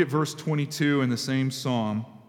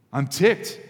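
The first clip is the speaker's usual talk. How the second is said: ticked said harder and louder; a touch more heat; 5 dB louder than usual. Pretend. Pastor voicing his own frustrated prayer to God, louder. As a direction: lean into the frustration the second time. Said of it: "Man, I'm so angry".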